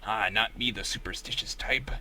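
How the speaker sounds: put-on cheerful old sea captain; crusty pirate voice. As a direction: sailor reading the weather, hopeful. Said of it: "do you like my crusty pirate voice".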